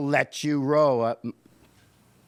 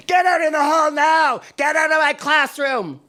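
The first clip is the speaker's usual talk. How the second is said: very loud, much higher furious yell; teacher shouting; 13 semitones higher, 10 dB louder than usual. Retold or imitated. Teacher ordering the boy into the hall, furious shout. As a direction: bellow him out of the room. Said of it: "Mister Cummings shouted at me".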